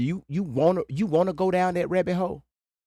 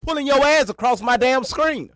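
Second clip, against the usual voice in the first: high mocking imitation; 8 semitones higher, 3 dB louder than usual. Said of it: "quoting the other streamer".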